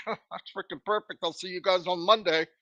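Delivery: a quiet, smug, throwaway mock of easy success; lightly mocking carefree boss voice. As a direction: toss it off like it was nothing, mocking. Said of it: "clicked the button and said".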